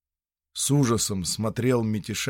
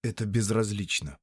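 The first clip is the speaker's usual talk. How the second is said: coldly. Acted. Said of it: "холодно сказал Лёва".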